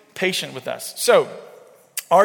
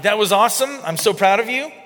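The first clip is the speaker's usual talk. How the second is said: put-on higher and brighter, proud cheering of a child; excited praise; 4 semitones higher, 3 dB louder than usual. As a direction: cheer your kid on with real delight. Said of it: "what I get excited about".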